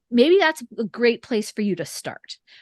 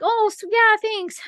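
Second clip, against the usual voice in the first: higher, awkward mock thanks; awkward, uncomfortable; 11 semitones higher, slower than usual. Author retelling how she answered a churchgoer, awkwardly. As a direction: squirm out an awkward thank-you. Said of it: "'cause it makes me uncomfortable".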